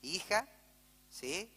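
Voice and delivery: calm correction. Pretend. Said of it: "hablarle y decirle".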